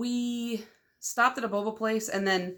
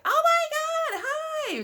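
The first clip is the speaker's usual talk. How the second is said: excited scream; much slower than usual. Real, not acted. Two creators meeting, screaming hello at each other. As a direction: shriek hello at a friend you admire. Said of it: "we're both, like, screaming".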